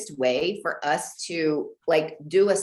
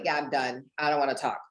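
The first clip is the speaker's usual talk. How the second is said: mock boyfriend; 5 semitones lower, faster than usual. Quoting boyfriend at night.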